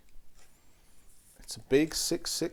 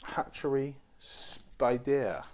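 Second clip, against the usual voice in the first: slow, lightly French pronunciation; a touch of a French accent; much slower than usual. Acted. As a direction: say it slowly with a hint of French. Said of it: "how some French people might say it".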